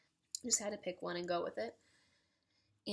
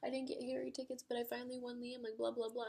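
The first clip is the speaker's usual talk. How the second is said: high-pitched run-on fan rant; hurried, higher-pitched mock ramble trailing into blahs; gushing spiel; 5 semitones higher than usual. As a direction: imitate yourself babbling without stopping. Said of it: "kept going on this whole spiel".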